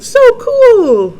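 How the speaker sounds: high, loud burst of awe; excited exclamation. Acted. Character marvels at the museum exhibits, loud and excited. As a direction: exclaim like a thrilled kid. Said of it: "He's saying".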